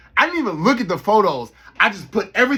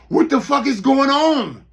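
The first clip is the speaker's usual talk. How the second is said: retold disbelief; 8 semitones higher, 5 dB louder, slower than usual. Retold shock at spinning checkout.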